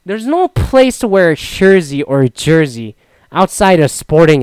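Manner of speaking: loud, high, incredulous ranting at the jersey guys; fed-up mock tirade; exasperated rant. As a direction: vent the outrage, loud and high. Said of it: "And I'm like".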